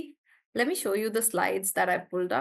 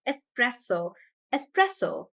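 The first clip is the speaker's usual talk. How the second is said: espresso with PRE stressed. Shown as a demonstration. Teacher answering a student's word, espresso stressed on pre. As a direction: lean on the middle syllable of espresso. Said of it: "Stress on pre".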